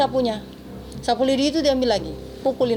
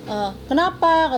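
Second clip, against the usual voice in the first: higher-pitched, drawn-out query; retold questioning; 5 semitones higher, slower than usual. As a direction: imitate the employer's querying tone. Retelling employer's sharp question.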